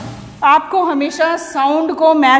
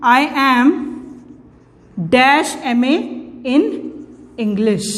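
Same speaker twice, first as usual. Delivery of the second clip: slow dictation; much slower than usual. Shown as a demonstration. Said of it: "मैं यहाँ लिखूँ".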